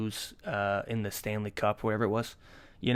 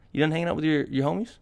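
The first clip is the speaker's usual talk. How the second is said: lightly asked, higher and innocent; genuine question; 4 semitones higher, faster than usual. Retold or imitated. Boyfriend asking his girlfriend in bed, innocent genuine question. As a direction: ask it sincerely, lifting the pitch. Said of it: "Like, just a genuine question".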